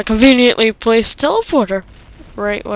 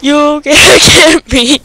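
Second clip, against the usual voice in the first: taunting shout; 5 semitones higher, 11 dB louder, slower than usual. Real, not acted. Taunting enemy in game, shouting.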